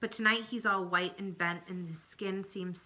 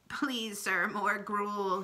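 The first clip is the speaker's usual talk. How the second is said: pleading orphan; much slower than usual. Acted. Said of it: "he says, holding up his plate".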